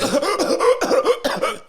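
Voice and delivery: helpless high cackle; high wheezing laugh. Real, not acted. Laughing at own joke.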